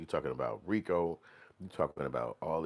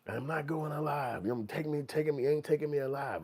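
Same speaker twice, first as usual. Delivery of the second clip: movie tough guy; 10 semitones higher than usual. Retold or imitated. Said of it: "The guy be like".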